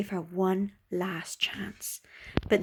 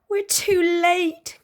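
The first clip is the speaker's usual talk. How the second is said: higher, slow mock dismay; dismayed cry; 9 semitones higher, 5 dB louder, much slower than usual. Gertie arrives home too late, dismayed. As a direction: sigh out the loss. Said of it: "cried Gertie".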